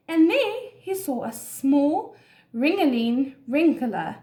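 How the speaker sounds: measured, expressive storybook narration; story reading to children. A narrator's reading. Teacher reads an animal story to children, expressive storytelling. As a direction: read it clearly for young listeners.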